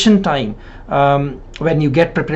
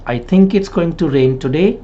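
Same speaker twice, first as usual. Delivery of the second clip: one phrase up to "today", then stop; pause at phrase end; 2 semitones higher than usual. Shown as a demonstration. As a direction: lift "today" slightly and pause after it.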